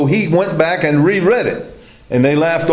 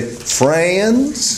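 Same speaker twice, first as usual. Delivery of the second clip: lightly mimicked radio preacher, drawn out and rising; Vernon McGee; 4 semitones higher than usual. Preacher quoting a fellow Bible teacher to his congregation, light imitation. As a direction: stretch it upward in a mild preacher imitation. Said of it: "as, uh, Vernon McGee would say".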